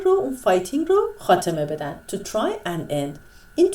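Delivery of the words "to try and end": very slow, careful repeat; slow repetition. Shown as a demonstration. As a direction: drag the phrase out for learners. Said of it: "teacher repeats phrase slowly".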